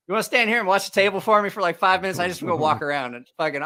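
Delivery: retold plea. TJ asking a favour, retold.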